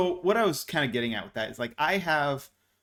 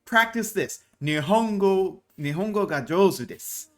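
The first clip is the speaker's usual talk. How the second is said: imitating eager student; 5 semitones higher, 4 dB louder than usual. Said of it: "was like".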